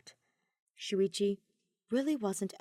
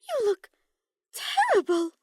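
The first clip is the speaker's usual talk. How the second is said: higher, louder character voice; girl's blunt remark on his looks; commenting; 13 semitones higher, 8 dB louder than usual. Acted. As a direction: point it out bluntly in a high voice. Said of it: "Sumuki commented".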